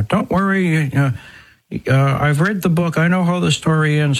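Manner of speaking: mock complacent believer. Priest imitating someone who says faith means no worry, mock-complacent. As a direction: imitate someone airily waving away all worry.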